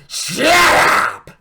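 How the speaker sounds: very high, loud, screeching shout; imitating the owner's trademark screaming shut up; Vince McMahon's famous shut up. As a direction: scream it like the boss silencing a crowd. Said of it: "Vince gives us our fa-, his famous".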